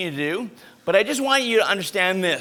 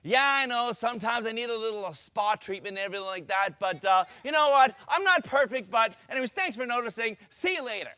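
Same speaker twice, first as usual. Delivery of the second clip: soft, easygoing shrug in the voice; calm, unbothered; 7 dB quieter than usual. Shown as a demonstration. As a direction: let it roll off, totally relaxed. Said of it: "Here's a second way".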